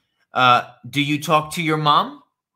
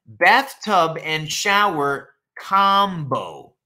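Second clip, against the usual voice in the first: slow repeat; 3 dB louder, slower than usual. Shown as a demonstration.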